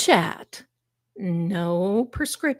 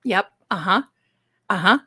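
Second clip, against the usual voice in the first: mock knowing agreement; faster than usual. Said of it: "I want all of you to say".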